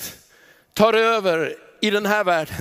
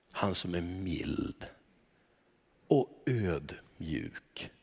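gentle hush; 12 semitones lower, 11 dB quieter, much slower than usual. Real, not acted. Describing the gentle judge.

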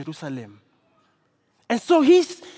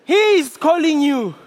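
encouraging; 3 semitones higher, 6 dB louder than usual. Acted. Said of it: "They say to him".

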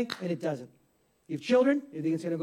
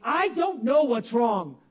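frustrated husband; much slower than usual. Retold or imitated. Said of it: "You say".

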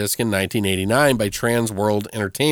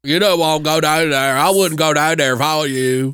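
slow, ominous warning from a gas station attendant; slow ominous raspy drawl; 4 semitones higher, 3 dB louder than usual. Retold or imitated. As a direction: drawl it out like a creepy local. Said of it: "'cause he goes".

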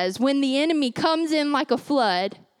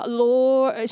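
grandma's Lord; 3 semitones lower than usual. Retold or imitated. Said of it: "She would say".

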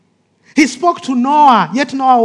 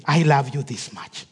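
hushed, much softer and lower; whispered; 9 semitones lower, 7 dB quieter than usual. Acted. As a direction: breathe it like God whispering. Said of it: "And in a whisper".

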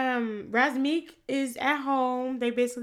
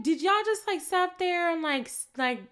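much higher, disbelieving challenge; incredulous confronting; 8 semitones higher than usual. Retold or imitated. Confronting the men who threw urine, incredulous. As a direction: call them out, appalled.

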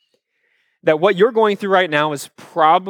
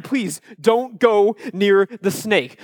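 put-on slow, higher-pitched childish plea; mock pleading; 4 semitones higher, much slower than usual. Child begging dad to stay away, mock pleading. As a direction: beg word by word, imitating a worried kid. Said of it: "I'm just trying to tell my dad".

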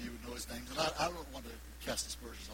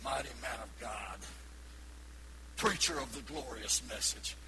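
mock pompous; 2 semitones lower than usual. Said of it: "He said".

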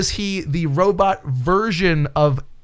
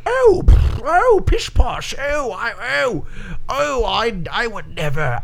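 high, fluttery, fussy dandy voice; Thomas Jefferson impression; 5 semitones higher, slower than usual. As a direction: clutch your pearls as a prissy founding father. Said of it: "That's my Thomas Jefferson impression".

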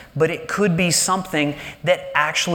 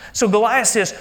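usual speaking voice

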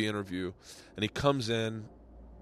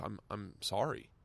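soft, slow, halting and lower; chastened apology; 4 semitones lower, 8 dB quieter, slower than usual. Retold or imitated. Guest apologizing to the angry host, meekly. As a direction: imitate a humbled guest apologizing.

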